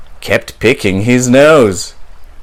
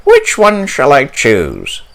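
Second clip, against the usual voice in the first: wondering; 3 semitones higher than usual. Acted. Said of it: "wondered Polly".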